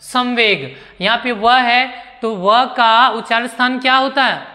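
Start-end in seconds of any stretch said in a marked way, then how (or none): 0.0-0.8 संवेग with an m sound before व; nasal as म. Shown as a demonstration. Teacher introducing the next example, संवेग sounded with म. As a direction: say संवेग as 'samveg', the dot as म. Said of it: "म".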